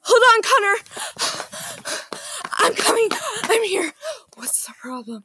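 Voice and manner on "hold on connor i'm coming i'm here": calling out. Acted. Calling out to friend in distress.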